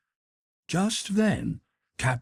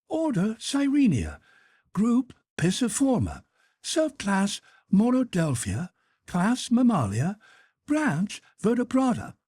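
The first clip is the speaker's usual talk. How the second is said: much higher, pedantic recitation of categories; Conseil reciting; 13 semitones higher than usual. Acted. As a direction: reel off the taxonomy like a proud pupil.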